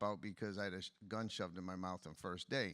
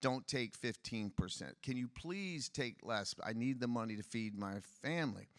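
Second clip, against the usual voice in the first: mother begging. Retold or imitated. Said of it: "I remember watching her beg them".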